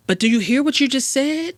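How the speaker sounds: high, climbing incredulous question; acted incredulity. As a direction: challenge them in disbelief, rising at the end. Acted reaction to young rappers.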